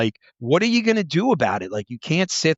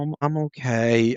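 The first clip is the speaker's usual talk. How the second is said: slow, drawn-out okay; retold client, stretching the words out; reluctant decline. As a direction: imitate someone slowly waving off help.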